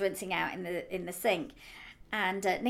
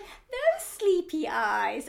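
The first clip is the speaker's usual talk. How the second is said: put-on slow, high, drawn-out child voice through laughter; imitating a child; 9 semitones higher, 8 dB louder, much slower than usual. Aunt voicing her nephew while laughing, slow and high. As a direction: stretch it out like a small boy. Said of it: "he's going".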